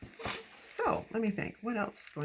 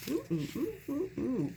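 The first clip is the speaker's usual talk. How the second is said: excited; 10 semitones higher than usual. Real, not acted. Excited at stickers.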